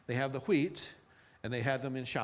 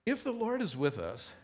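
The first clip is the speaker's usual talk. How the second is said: doubting Gideon; 9 semitones higher than usual. Acted. Gideon's doubting reply voiced.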